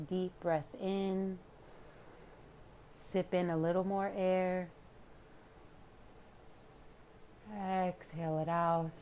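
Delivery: unhurried calm guidance with long pauses; guided meditation. Real, not acted. Yoga teacher leading listeners into relaxation, calm meditation voice. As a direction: guide them inward, leaving room to breathe.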